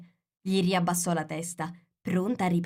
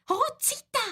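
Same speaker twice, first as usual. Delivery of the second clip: very high, alarmed hushing; frightened whisper. A narrator's reading. Frightened Rabbit hushes laughing Alice, whispering. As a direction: shush her in a high, frightened voice. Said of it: "bisbigliò il coniglio spaventato".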